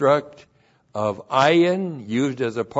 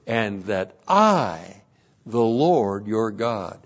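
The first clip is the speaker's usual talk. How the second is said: slow and lower; a measured, low reread; slow literal reading; 3 semitones lower, slower than usual. Acted. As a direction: let every word stand alone. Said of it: "It literally says".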